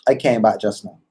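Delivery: relaxed Caribbean lilt; Caribbean accent. Shown as a demonstration. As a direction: loose jaw, no thought, Caribbean accent. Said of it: "open your mouth and say".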